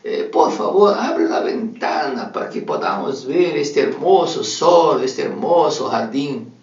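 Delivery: high, slow cheerful greeting; blind old lady. Acted. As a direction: greet the morning sun, delighted.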